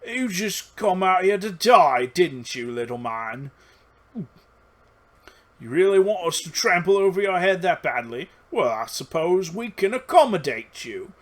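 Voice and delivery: goblin boss. Acted. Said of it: "the goblin boss says".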